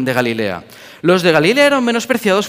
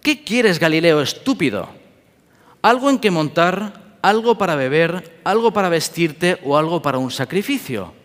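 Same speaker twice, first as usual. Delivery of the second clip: mocking market vendor. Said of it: "bromeaban con los galileos y le preguntaban".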